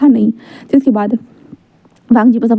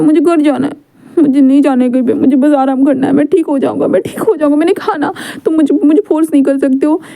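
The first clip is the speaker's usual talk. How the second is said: pleading protest; 4 semitones higher than usual. Acted. Wing begs to go home.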